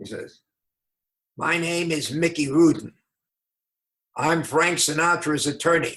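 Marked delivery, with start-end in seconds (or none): 1.4-6.0 roughest, very rough-voiced speaking. Retelling a phone call from an attorney: Mickey Rudin's rough voice. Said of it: "a man with the roughest voice I ever heard".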